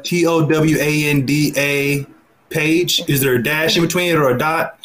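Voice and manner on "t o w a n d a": T O W A N D A, letter by letter and slow; spelled out slowly. Shown as a demonstration.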